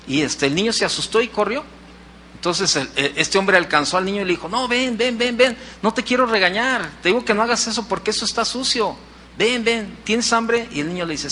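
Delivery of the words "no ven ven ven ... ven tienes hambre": higher-pitched imitation of a man coaxing; coaxing a child. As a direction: urge a child to come back, voice raised in pitch. (tono agudo de convencer a un niño)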